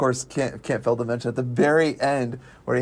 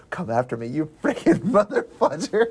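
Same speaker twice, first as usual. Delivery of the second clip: taunting. Retold or imitated. Imagining the driver daring his pursuers, mock taunt. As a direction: dare him, with a laugh breaking in. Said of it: "he's taunting him".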